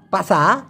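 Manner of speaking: পাসা with the r dropped; Malay pronunciation. Shown as a demonstration. Teacher models Malay পাসা. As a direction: stop পাসা on the vowel. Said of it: "হয়ে যাবে হচ্ছে পাসা".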